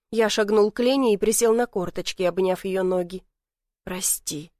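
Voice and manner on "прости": very soft, quiet apology; hushed plea. A narrator's reading. Man kneels, softly begging Lena's forgiveness. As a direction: barely breathe the word.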